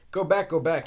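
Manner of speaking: loud, high push-back; urgent shout. Acted. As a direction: shove her out with the voice. Willie shoving the woman out.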